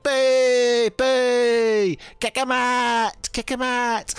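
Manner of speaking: high mock booing girls; jeering crowd. The tavern girls jeer at Onyx, high and mocking. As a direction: jeer him off the table. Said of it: "girls who are on the table".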